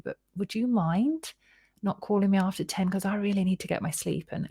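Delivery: soft, considerate tone; gentle request. Shown as a demonstration. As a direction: ask kindly, easing into it. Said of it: "imagine you can either say".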